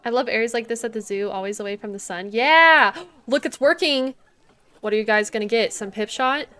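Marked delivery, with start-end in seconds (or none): 2.3-2.9 loud triumphant yeah; excited cheer. Real, not acted. Cheering as the vending machine works, loud. 3.1-4.1 loud, delighted announcement; excited. Real, not acted. Seeing guests use the machine, delighted.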